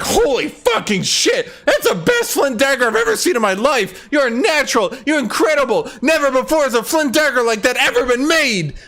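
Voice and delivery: hammed-up fawning villager in awe; over-the-top gushing NPC. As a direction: rave at the player like they're a genius. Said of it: "the character was like".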